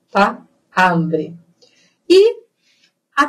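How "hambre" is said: "Hambre" low, with open a; open vowel. Shown as a demonstration. Teacher modelling Spanish, low open a. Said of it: "Sempre aberto".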